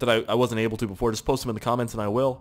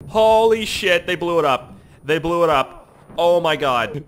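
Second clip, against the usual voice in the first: loud, high amazed outburst; excited shout; 5 semitones higher, 6 dB louder, slower than usual. Real, not acted. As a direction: shout it in disbelief, first words drawn out. Reacts to surprise explosion.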